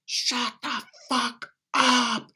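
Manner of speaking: high, slow, drawn-out yell; retold scream. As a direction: bark it out to finally shut him up. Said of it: "I literally had to scream out loud".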